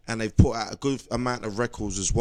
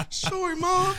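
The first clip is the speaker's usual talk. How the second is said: laughing apology; slower than usual. Pretend. Apologising to pretend mum, laughing.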